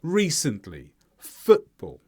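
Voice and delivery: "Recently", "Football", each stressed on the first syllable; isolated model words, weight on "Re-" and "Foot-"; one stressed syllable each. Shown as a demonstration. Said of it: "only actually one of the syllables".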